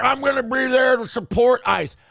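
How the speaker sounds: high, loud mock cheer; mock rally shout. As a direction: shout it like a gung-ho fan. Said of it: "watching guys bootlick ice and be like".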